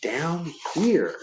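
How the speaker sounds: the dark speaking. Acted. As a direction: lure him downstairs. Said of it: "said the dark again".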